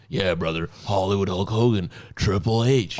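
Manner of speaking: lightly voiced wrestler impression; Hulk Hogan. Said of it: "did you know that Hulk Hogan".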